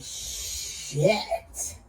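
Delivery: breathy whispered curse; mock scream done as a whisper. Telling how she cursed at probation, whispered. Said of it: "Made me scream it out like that".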